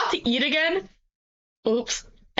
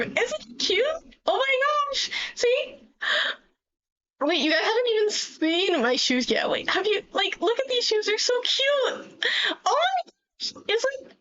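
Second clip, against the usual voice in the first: put-on bright magical girl; 8 semitones higher than usual. Showing off magical girl form.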